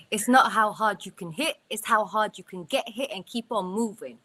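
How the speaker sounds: lightly performed movie-fighter line; Rocky Balboa. Acted. Teammate showing she can outdo him, light Rocky Balboa take. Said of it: "I'll probably do it better than him".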